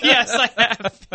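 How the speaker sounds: laughing. Real, not acted. Laughing after joke.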